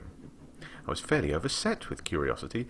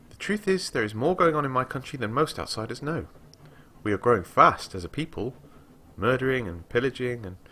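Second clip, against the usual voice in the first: put-on higher, eager young woman's voice; a young scholar boasting to a traveller, lightly voiced; lightly voiced eager girl; 7 semitones higher than usual. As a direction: read her up high and keen, lightly. Reads the girl's dialogue.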